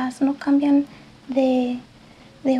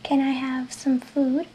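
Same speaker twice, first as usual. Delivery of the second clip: slow, careful English question; slow teacher delivery; slow model question; slower than usual. Shown as a demonstration. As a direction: say it slowly for learners. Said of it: "Es igual que".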